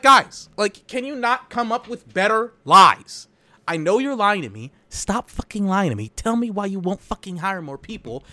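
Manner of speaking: high, loud scolding; angry retort. Retold or imitated. Scolding the managers for lying, high and loud. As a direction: tell them off, fed up. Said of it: "And I'm just like".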